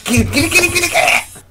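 real excitement at the game; excited urging. Real, not acted. Grabbing mug in game.

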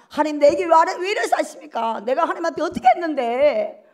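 mock grievance to God; acted resentful complaint. Believer demanding of God why this happened, mildly acted resentment. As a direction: protest indignantly, as if wronged. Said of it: "불평 원망".

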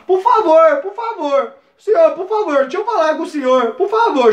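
high-pitched mock pleading; frightened begging. Asking to talk with the officer, mock frightened begging. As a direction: beg repeatedly, comically desperate. Acted pleading, later called medrosão.

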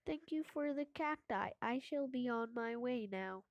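stiff, even robotic delivery. Acted. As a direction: speak like a machine. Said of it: "I shall also speak in a robotic voice".

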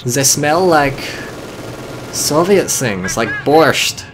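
put-on hammy German soldier accent. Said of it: "I can't say borscht in a German accent".

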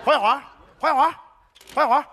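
loud call across the hallway, half laughing; loud laughing call to a neighbor. Acted. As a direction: summon the neighbor by name, loudly. Calling neighbor out loudly.

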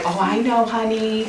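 sympathetic mother-in-law. Retold or imitated. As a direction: imitate a mother-in-law's knowing sympathy. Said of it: "she'll be like".

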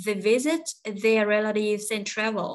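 "visit", "relatives", "travel" stressed, "their" and "and" glided over; slow model sentence, weight on "visit", "relatives" and "travel"; content words stressed. Shown as a demonstration. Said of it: "những cái đứa còn lại mình có quyền lướt".

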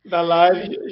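allergy-roughened honking voice. Real, not acted. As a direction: talk through an allergy-worn honk. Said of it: "peço desculpa pela voz de, de Pato Donald".

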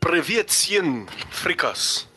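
hammed-up Russian accent greeting. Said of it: "Gostaram do meu sotaque russo?".

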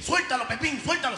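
high urgent call to the gorilla. Acted. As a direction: yell for the gorilla to let go. Zoo owner yells at gorilla.

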